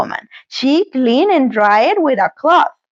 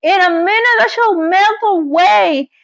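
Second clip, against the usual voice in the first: mild panic; 6 semitones higher than usual. A narrator's reading. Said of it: "she screamed".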